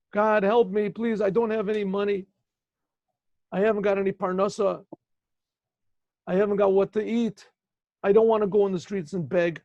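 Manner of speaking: a mild retold plea that swells into a loud high cry on the last "please help me"; imitated crying plea. Woman at the Aron HaKodesh begging God for money, mild plea building to a loud cry. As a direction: beg God, building until it breaks out loud. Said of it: "She's screaming and yelling and crying".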